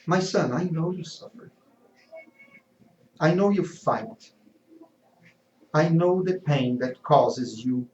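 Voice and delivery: lightly voiced gentle mother; a hint of a serene, consoling mother; calm. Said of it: "the calm lady replied".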